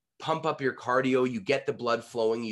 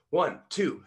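higher, louder boxing count; punched count; 4 semitones higher, 5 dB louder than usual. Shown as a demonstration. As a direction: punch out each number.

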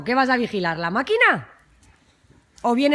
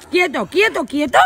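firm command; 4 semitones higher than usual. Real, not acted. Stopping the dog.

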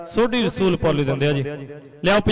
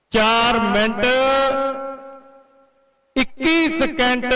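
higher-pitched announcer's voice, drawn out; result announcement; 4 semitones higher than usual. Real, not acted. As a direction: call out the official time to the crowd, stretching each figure. Announces the result after the final count.

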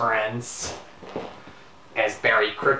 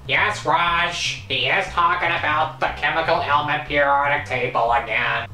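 moderately raised character voice; Leonard, confirming; 4 semitones higher than usual. Acted. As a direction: answer as the weary friend, lightly acted. Plays Leonard answering Raj.

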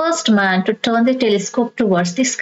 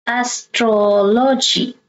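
Astrology said slowly, stress on TROL; third-last syllable stressed; slower than usual. Shown as a demonstration. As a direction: stretch Astrology out, leaning on as-TRO-logy. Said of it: "you stress the third syllable from the".

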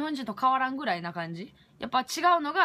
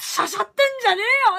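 much higher, louder, very fast; rough retort; 12 semitones higher, 10 dB louder, much faster than usual. Retold or imitated. Telling off the pushy cashier in her head, fast and angry. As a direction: spit it out fast and rude.

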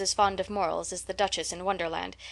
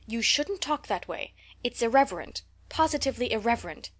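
stern Marilla; 4 semitones higher than usual. Acted. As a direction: scold her for irreverence. Marilla scolds Anne.

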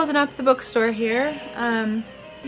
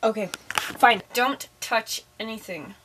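slow, low, softer warning; reluctant giving in; 8 semitones lower, 6 dB quieter, slower than usual. Acted. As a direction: give in reluctantly, slowing right down. Gives in reluctantly.

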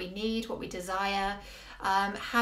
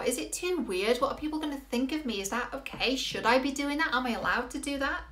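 higher, fretful string of questions; mildly anxious self-questioning, pitched up; acted self-doubt; 5 semitones higher than usual. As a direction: play a worried inner voice seeking permission. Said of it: "here's what it sounds like".

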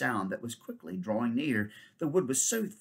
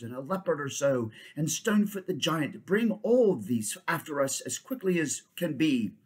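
higher, louder urgent orders; commanding king; 4 semitones higher, 4 dB louder than usual. Acted. King ordering the centaur to fetch troops, urgent. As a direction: command with impatience.

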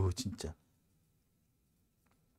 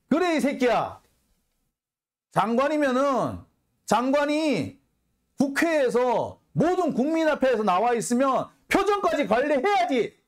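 indignant retort; 6 semitones higher than usual. Real, not acted. Angry retort to the quoted minister.

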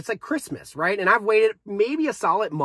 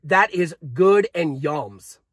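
blissed-out groan; 4 semitones lower, much slower than usual. Real, not acted. Savouring the flavour.

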